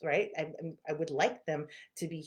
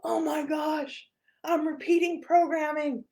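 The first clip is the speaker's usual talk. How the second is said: laughing realization; 11 semitones higher, 6 dB louder, slower than usual. Retold or imitated. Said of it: "And then I was like".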